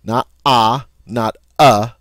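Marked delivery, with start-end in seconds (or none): 0.4-0.9 stressed "ah" as the sound to avoid; contrasting wrong vowel. Shown as a demonstration. Teacher shows what it is not, contrasting vowel. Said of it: "but somewhere in between there". 1.6-1.9 "uh" as in hut, hit louder; stressed "uh" as the sound to avoid; contrasting wrong vowel. Shown as a demonstration. Teacher shows what it is not, contrasting vowel. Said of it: "but somewhere in between there".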